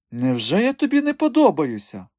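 high, pouting wounded coquette; hurt seductress. Acted. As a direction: sulk that he could resist her. Madame pouting at rejection.

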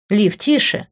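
mild calming appeal; conciliatory hushing. A narrator's reading. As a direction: hush her without scolding. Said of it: "примирительно сказала Рита".

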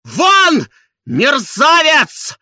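very high, loud, slow furious order; trembling furious shout; shaking with rage. A narrator's reading. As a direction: throw him out in fury. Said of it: "трясясь от ярости".

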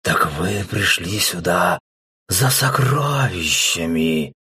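slow, hissing snake voice; hissing serpent. Acted. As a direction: draw the words out like a serpent. The serpent answers the humans.

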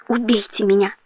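ordinary delivery, nothing marked

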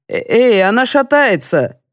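alarmed. A narrator's reading. Colonel on a wobbly ladder, alarmed. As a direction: panic as the ladder shakes.

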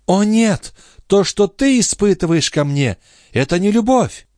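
put-on young wife pleading with her husband. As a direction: beg him for love. Lorenza, much higher.

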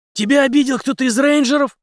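high, loud sharp demand; Henry sharply confronts Zack; sharp question. Acted. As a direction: snap the question at him. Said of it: "резко спросил Генри".

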